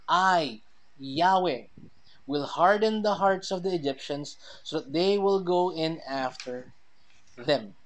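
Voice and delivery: emphatic reading with I standing alone. Shown as a demonstration. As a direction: hit "I, Yahweh" hard, then read on firmly. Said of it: "both pronouns are in the emphatic position".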